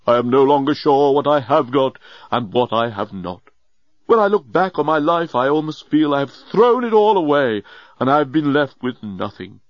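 lightly voiced, self-pitying great man; regretful old genius. Leovinus laments his life to the journalist, maudlin. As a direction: lament a wasted life with a touch of drama.

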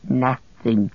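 slow whining creature voice; Gollum, forlorn. Acted. Starving captive moaning he has nothing, whining creature voice. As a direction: moan it emptily.

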